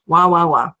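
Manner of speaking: mock whining. Mocking her own complaining.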